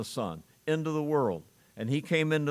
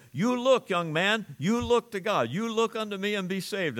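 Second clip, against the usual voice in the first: urgent pleading preacher; 6 semitones higher than usual. Retold or imitated. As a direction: call the boy to look, pressing hard. Lay preacher urging young Charles.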